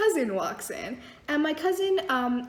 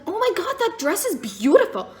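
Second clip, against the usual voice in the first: lightly voiced maid gushing; 5 semitones higher, 5 dB louder than usual. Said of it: "and she's like".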